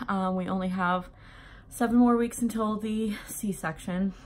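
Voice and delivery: breathless between phrases; short of air, heavily pregnant; out of breath. Real, not acted. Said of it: "I'm, like, super out of breath".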